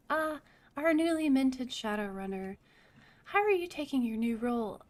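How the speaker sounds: sweetly welcoming; sweet Cheng. Acted. Crime boss greeting the new runner, a touch sweeter. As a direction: lay on the sweetness for the new recruit. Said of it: "Cheng's voice turns sweet".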